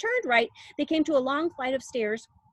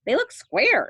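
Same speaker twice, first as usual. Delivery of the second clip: put-on higher, louder spoilt girl; Veruca; 6 semitones higher, 7 dB louder than usual. A narrator's reading. Veruca Salt contradicting Wonka, spoilt and loud. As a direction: insist like a bratty child. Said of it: "said Veruca Salt".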